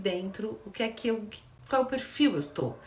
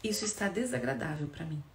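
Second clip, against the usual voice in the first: soft, even self-report; calm I-statement; 3 semitones lower, 3 dB quieter than usual. Shown as a demonstration. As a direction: own the feeling gently. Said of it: "Aqui eu tô trazendo pra mim".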